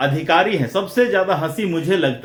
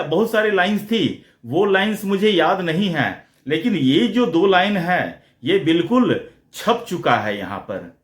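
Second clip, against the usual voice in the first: ordinary talk, nothing marked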